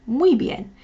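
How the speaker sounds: Muy bien said crisply, "mwee byen"; Spanish model phrase. Shown as a demonstration. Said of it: "literally say".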